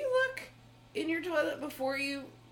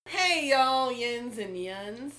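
big show greeting; 6 dB louder, much slower than usual. Real, not acted. Calling out the show's greeting.

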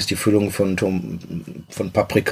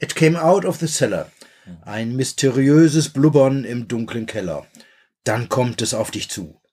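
movie trailer voice. Retold or imitated. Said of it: "darf ich zitieren?".

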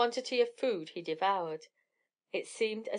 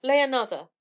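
higher, much louder roar; roaring giant; 4 semitones higher, 8 dB louder than usual. A narrator's reading. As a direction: bellow the command. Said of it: "roared the giant".

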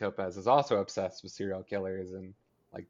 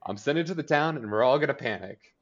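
loud, higher, rapid-fire mock defiance; defiant Alice; 6 semitones higher, 7 dB louder than usual. Imitating a mother telling off the sheriff, loudly defiant. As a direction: throw it in his face, loud and quick.

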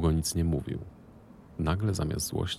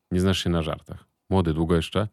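put-on louder call to the young man; 6 dB louder than usual. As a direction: call him over, impatient and loud. Calls the son to leave. (Marchlik głośno pogania Kajtka)

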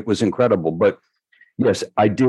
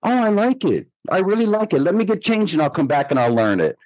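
imitating a pop star; 10 semitones higher than usual. A pop star voiced in retold story.

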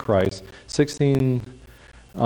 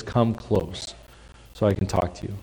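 soft invitation; 2 semitones lower, 6 dB quieter than usual. Acted. Whisper voice contrasted with boom.

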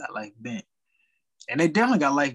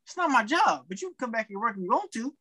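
higher mocking voice of a rude lady; snippy lady; 5 semitones higher than usual. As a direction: play the entitled lady, a touch raised. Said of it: "Lady was like".

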